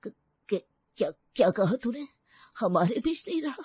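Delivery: a man who cannot take in the news; shocked disbelief. Acted. Uncle hears of death.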